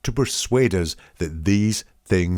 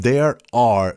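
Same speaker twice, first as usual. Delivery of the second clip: "there are" leaned on, a touch louder; stress on present tense; 3 semitones higher, 4 dB louder than usual. Shown as a demonstration. Pointing out the present tense to viewers, stressing "there are". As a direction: hit "there are" to show it is now. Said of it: "that says it's the present tense".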